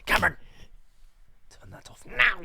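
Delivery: high, loud scolding mum; impression of an annoyed mother calling out; man doing a woman's voice. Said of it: "you do the impression better than me".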